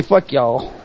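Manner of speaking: lightly put-on Southern accent. Host voices a chatter from Atlanta, Southern accent. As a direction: say it with a touch of Southern drawl. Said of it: "I guess she's saying it in Southern".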